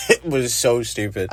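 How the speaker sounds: real laugh spilling into the words; amused disbelief, laughing as you speak. Real, not acted. Reviewer mocking a stupid chase scene, laughing.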